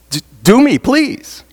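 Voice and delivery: high-pitched imitation of begging; eager plea. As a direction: plead like an eager convert, voice jumping up. Acting out man begging for baptism.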